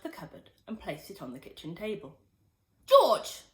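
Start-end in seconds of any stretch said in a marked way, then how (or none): 2.9-3.4 high, loud shriek of his name; shrill call. Acted. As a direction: shriek it from the next room. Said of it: "came the shrill voice".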